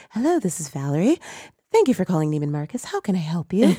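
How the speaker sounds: lightly put-on polite business phone greeting; white phone voice. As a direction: answer like customer service, a little put on. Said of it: "be like".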